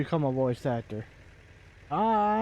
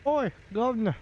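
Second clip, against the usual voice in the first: higher, cheery-phrased English "oi, governor"; English accent; 4 semitones higher than usual. Shown as a demonstration. Streamer showing off an accent after warming up, English accent. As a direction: put on a hammy British accent. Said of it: "I can do an English accent".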